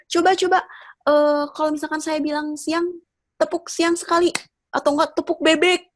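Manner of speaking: rally the crowd like a stage MC; MC hyping a crowd. Retold or imitated. Imitating an MC leading clapping games.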